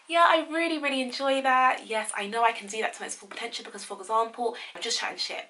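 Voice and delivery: high, loud, beaming delivery; eager upbeat interview voice; bright excited answer. Shown as a demonstration. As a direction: gush with a big smile. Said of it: "You go".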